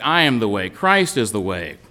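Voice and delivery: "I" hit first, the rest falling; "I" carries the stress. Shown as a demonstration. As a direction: lean on "I" in "I am the way". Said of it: "he's emphasizing the fact".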